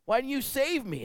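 high, aggrieved question with a laugh; puzzled complaint. Retold or imitated. Drowned man asking God why, hurt and puzzled. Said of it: "he says".

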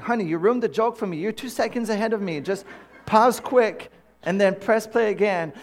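high, insistent complaint to a partner; mock exasperation. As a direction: whine urgently at your sweetheart, playfully.

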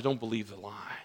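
God, gently. Acted. God correcting weary Elijah, low and soft. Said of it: "God says to Elijah".

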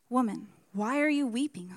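ordinary talk

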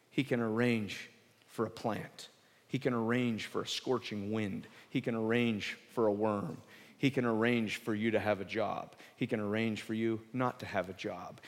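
quiet steady repetition; soft litany. Real, not acted. Preacher calmly reminding listeners, a soft steady litany. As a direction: lay each line down gently. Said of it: "soft repeated litany".

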